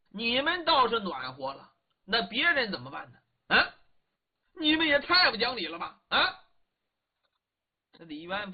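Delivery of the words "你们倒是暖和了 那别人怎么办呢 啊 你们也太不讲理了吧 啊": indignant scolding. Acted. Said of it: "嗓门挺高，在那里嚷人呢".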